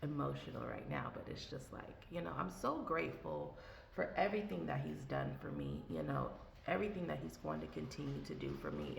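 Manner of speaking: soft, choked-up gratitude; quietly welling up while giving thanks; getting emotional. Real, not acted. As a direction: voice catching with real emotion. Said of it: "I don't know why I'm getting, uh, like, emotional right now".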